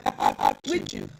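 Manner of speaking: mock laugh along. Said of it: "I'm gonna be like".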